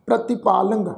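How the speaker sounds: ਪ੍ਰਤਿਪਾਲੰਗ with a nasal ਲੰ; nasal pronunciation. Shown as a demonstration. Teacher showing the sangat the tippi, nasal ਲੰ. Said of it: "ਨਾਸਿਕ ਉਚਾਰਨ ਕਰਾਂਗੇ ਪ੍ਰਤਿਪਾਲੰਗ".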